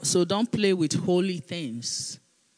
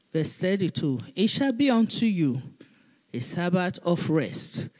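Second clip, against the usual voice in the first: raised, declaiming Bible reading; scripture reading; 3 dB louder than usual. Acted. Pastor reading Leviticus aloud to the congregation, declaiming. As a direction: proclaim the verse to the church.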